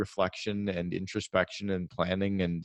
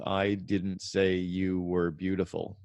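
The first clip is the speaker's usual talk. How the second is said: each word laid out slowly and evenly; deliberate slow example sentence; slow demo sentence; much slower than usual. Shown as a demonstration. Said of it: "It's a six-word sentence".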